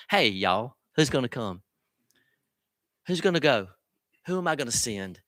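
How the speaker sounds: a hint of a folksy Southern preacher; playful touch of a Southern accent; Southern spin. Shown as a demonstration. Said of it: "Let me put a little Southern spin on it".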